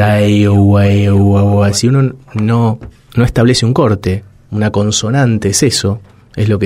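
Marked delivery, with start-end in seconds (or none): 0.0-1.6 vowel babbling. Shown as a demonstration. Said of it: "uno podría decir".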